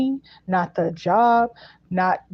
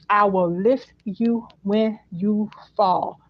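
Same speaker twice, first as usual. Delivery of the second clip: very slow, word by word to "fall"; stress on fall; much slower than usual. Retold or imitated. Relaying a promise to you, slow stress on fall. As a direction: stretch the line out and land on "fall". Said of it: "they emphasize fall again".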